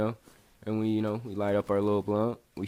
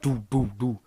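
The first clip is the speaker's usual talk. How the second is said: three spoken thuds for a knock; imitated door banging. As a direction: mimic heavy knocks on a door. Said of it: "they bang on the door".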